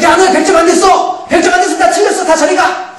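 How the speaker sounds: high, sharp mock yelling; mock angry rejection. Preacher mimics a harsh God rejecting failures, high and mock angry. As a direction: shoo them away in a mock huff.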